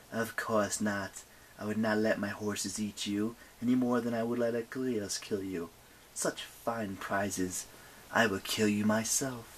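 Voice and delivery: understated regal menace, taking its time; imperious night goddess. Acted.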